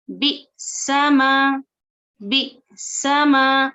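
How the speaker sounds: फ़तू very slow, with a small stop before तू; tiny jolt in the middle of फ़तू; slight catch on hamza. Shown as a demonstration. Teacher shows students the stop at hamza sakina. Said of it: "next मिसाल".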